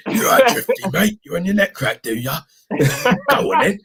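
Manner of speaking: high-pitched put-on chiropractor patter; mock chiropractor. Chiropractor inviting Drifty to sit, lightly hammed-up high voice. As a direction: play a chummy chiropractor ushering in a client. Acting the chiropractor greeting a client.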